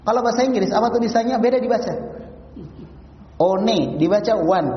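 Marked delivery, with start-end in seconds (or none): 3.4-4.7 "One" then said as "wan", slow; slow demo of "One" read as wan; English spelling read aloud. Shown as a demonstration. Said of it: "kan jauh nih".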